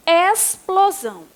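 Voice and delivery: "Explosão" split into clear parts, X as S. Shown as a demonstration. Teacher urging pupils to say it aloud, "Explosão" sounded out with an S. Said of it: "Fala bem alto".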